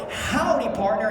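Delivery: a hint of a cowboy greeting, high and loud; cowboy howdy. Shown as a demonstration. Teaching the crowd their cowboy greeting, lightly voiced. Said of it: "walk up to them and go".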